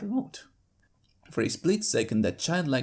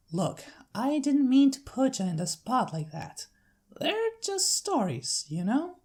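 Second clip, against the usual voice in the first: friendly big-sister country voice; Applejack's country accent; 12 semitones higher, 4 dB louder than usual. Acted. Applejack sending her sister to the farm, Southern accent.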